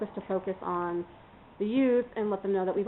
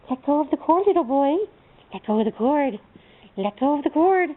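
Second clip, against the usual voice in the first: firm command to dog; 5 semitones higher, 4 dB louder than usual. Real, not acted. Ordering the dog off the cord.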